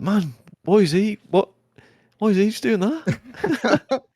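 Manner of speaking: high, laughing disbelief; incredulous squeal. Retold or imitated. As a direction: squeak it out in shocked amusement. Retold shock at naked old man.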